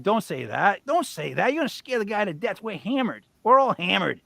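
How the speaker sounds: alarmed plea. Retold or imitated. Retold alarmed plea to his friend.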